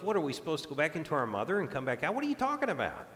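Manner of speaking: lightly mocking, incredulous questioning; hint of sarcasm. Nicodemus questions Jesus about being born again, with a hint of sarcasm. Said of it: "a little hint of sarcasm".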